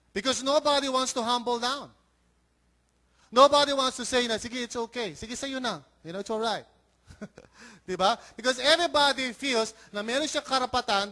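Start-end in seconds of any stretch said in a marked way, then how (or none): 4.3-6.6 softer, conceding mock voice; mild yielding. Pastor voicing what nobody wants to say, softly yielding. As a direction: give way gently, as if letting them have it. Voices someone humbly giving way.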